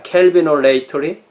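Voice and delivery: 켈비노레이터리 with stress toward 레이; careful English-style 켈비노레이터리, rising at the end; English term pronunciation. Shown as a demonstration. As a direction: sound out 켈비노레이터리 as English Calvinolatry. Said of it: "어떻게 발음해야 되겠나요".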